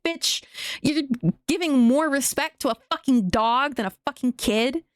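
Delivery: high, exasperated call-out; incredulous scolding. Retold or imitated. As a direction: scoff at her priorities. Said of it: "And I'm like".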